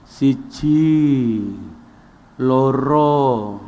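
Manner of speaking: lightly mimicked slow Javanese count. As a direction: drag the numbers lazily. (menghitung pelan ala orang Jawa)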